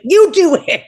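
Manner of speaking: high-pitched mock frustration; frustrated. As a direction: imitate someone giving up in exasperation. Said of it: "he got so frustrated".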